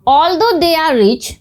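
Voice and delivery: very slow, words set apart; slow example reading. Shown as a demonstration. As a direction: read it out slowly for learners. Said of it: "teacher reads example sentence". (बहुत धीरे, साफ़-साफ़)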